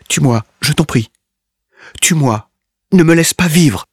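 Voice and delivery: high, loud frantic begging; hysterical screaming. A narrator's reading. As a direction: scream to be killed. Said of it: "hurlements hystériques".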